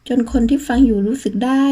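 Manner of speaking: ordinary delivery, nothing marked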